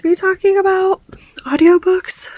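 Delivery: high, breathy whispered trailing off. Real, not acted. Vlogger forgetting her topic, whispering to herself. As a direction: whisper to yourself as you lose the thread. Losing her train of thought.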